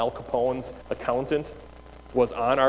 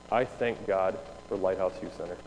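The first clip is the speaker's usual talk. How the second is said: retold heartfelt thanks; 5 semitones lower, 5 dB quieter than usual. Retold tearful boy's solemn thanks.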